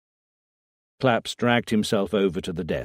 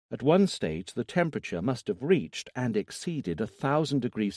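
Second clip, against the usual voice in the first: neutral professional tone; 3 semitones higher than usual. Acted. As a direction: read the autopsy findings coolly, like a doctor. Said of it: "in a neutral and professional tone".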